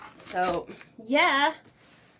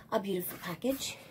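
whisper; 4 semitones lower, 9 dB quieter, faster than usual. Real, not acted. Teasing the Amazon package.

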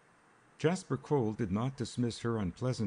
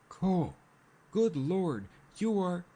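much higher and louder, Cole cried out in shock; stunned exclamation; 11 semitones higher, 4 dB louder, slower than usual. A narrator's reading. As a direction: blurt it out as the truth dawns. Little man stunned by revelation.

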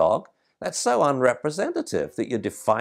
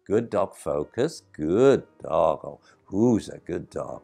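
handler commands and praise. Shown as a demonstration. Owner redirecting her dog past another dog, firm then praising. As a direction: pull the dog's focus back, then reward it with your voice.

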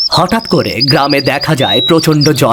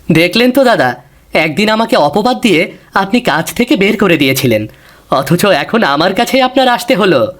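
higher, pointed told-you-so; young man gently rubbing it in; a hint of vindicated reproach; reproachful; 6 semitones higher than usual. Bishu reproaches his old employer.

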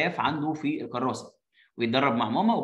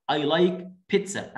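slow model reading; much slower than usual. Shown as a demonstration. Reading child's line slowly.

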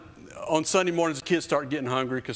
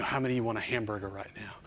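put-on teasing hungry kids; 3 semitones lower, 6 dB quieter, much faster than usual. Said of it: "I was telling them".

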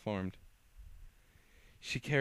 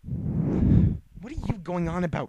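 scornful; 7 semitones higher, 10 dB louder, slower than usual. Acted. Lucy mocking the downed foe.

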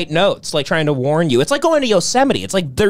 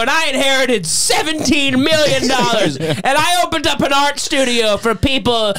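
mock arrogant rant; 5 semitones higher than usual. Ranting as the arrogant man.

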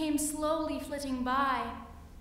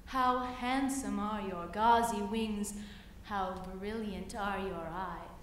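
sly spider; 4 semitones lower than usual. Acted. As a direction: purr it low and sweet like a spider. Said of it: "said the spider".

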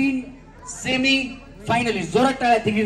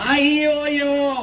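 Tusshar Kapoor; 3 semitones higher, much slower than usual. Retold or imitated. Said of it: "गुलमान मधला तुषार कपूर".

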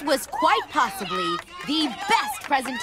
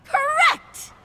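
excited; 14 semitones higher, 3 dB louder than usual. Acted. Host announcing right answer.

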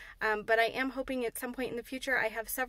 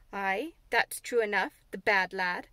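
slow, lower sighing Yorkshire resignation; sighed; 3 semitones lower, 4 dB louder than usual. Acted. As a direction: give in with a weary sigh. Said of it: "sighed Martha".

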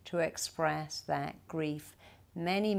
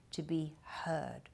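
slow, hushed whisper; 12 dB quieter, slower than usual. Real, not acted. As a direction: drop to a breathy hush to land the point. Emphatic point about being heard.

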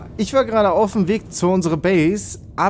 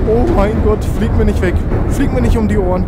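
louder, urgent don't-fly-away plea; panicked plea; 3 semitones higher, 5 dB louder than usual. Real, not acted. Gamer panicking as his sub is flung about, loud urgent plea. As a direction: beg the sub not to blow away. Sub flying off after blast.

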